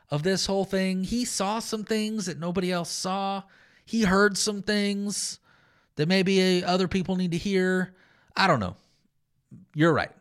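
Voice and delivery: dry, mock-humble agreement that drips with irony; sarcastic Paul. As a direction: play Paul humouring his critics with a sly smile. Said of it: "that's a little bit of the tone".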